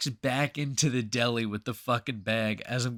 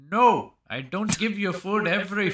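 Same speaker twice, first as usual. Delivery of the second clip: higher, louder heated refusal in an imitated Indian shopkeeper's voice; angry deli owner; 8 semitones higher, 5 dB louder than usual. Deli owner refusing a homeless man food, imitated angry outburst. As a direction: act out the fed-up Indian counterman.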